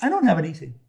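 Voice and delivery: high, light and unbothered; smiling innocence. Retold or imitated. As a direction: answer the threat with an easy smile. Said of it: "Narada smiles at him and says".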